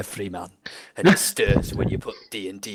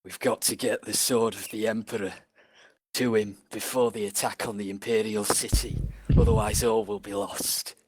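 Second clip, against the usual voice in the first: Sean Bean. Acted. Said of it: "Sean Bean".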